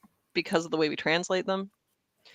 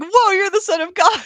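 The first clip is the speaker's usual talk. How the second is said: loud, high, hammed-up amazement; over-the-top starstruck exclamation; awestruck Nathaniel; 13 semitones higher, 9 dB louder than usual. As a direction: gush in mock awe, voice leaping up. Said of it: "And Nathaniel's like".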